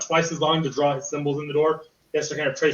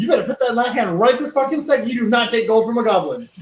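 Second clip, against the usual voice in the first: goblin demand; 7 semitones higher, 4 dB louder than usual. Acted. Goblin demanding gold back.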